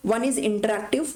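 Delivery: slow, deliberate dictation of the list; slow read-out. Shown as a demonstration. Teacher reading the types to her students, slow and deliberate. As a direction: spell out each item slowly for note-taking. Reads slide points out slowly.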